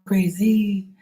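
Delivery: high, scolding mimicked father; dad impression. Father scolding his child over not graduating, high mocking imitation. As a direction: nag like an appalled dad, dragging out some words. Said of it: "he goes like this".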